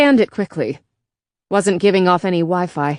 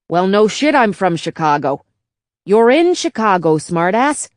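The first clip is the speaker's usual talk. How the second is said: gruff Chicago bartender bot. Acted. Old bartender bot hurrying a stranger inside, brash Chicago voice. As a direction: push him in, worried about the boss.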